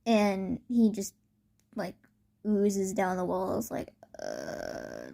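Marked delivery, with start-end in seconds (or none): 4.2-5.1 low, soft imitated groan; mock dazed groan; knocked-out groan. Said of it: "like, all knocked out".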